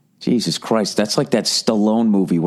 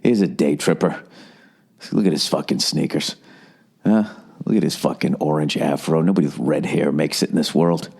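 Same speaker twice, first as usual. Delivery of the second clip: lower, sneering murmur; snooty rich people; 5 semitones lower than usual. Retold or imitated. Mimicking rich Hamptons guests sizing up the comic, low and snooty. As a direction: look down your nose at the intruder. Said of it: "they were just like".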